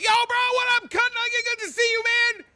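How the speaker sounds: fake bro greeting. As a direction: play along as the chummy bro. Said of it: "I gotta be like".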